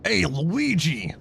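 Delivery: put-on slow, loud Italian-accent hail; mock Italian call. Calling to Luigi, drawn-out mock Italian accent. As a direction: stretch out the greeting in mock Italian. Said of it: "The Italian accent".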